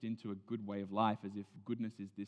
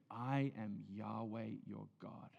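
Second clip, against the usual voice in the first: tender God; 4 dB quieter, slower than usual. Shown as a demonstration. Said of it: "let's change the tone a little bit".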